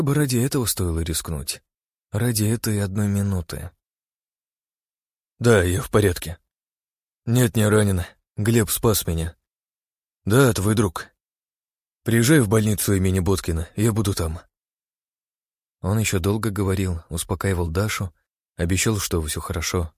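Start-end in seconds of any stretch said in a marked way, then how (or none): 5.4-14.4 tearful on the phone. A narrator's reading. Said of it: "плакал от счастья".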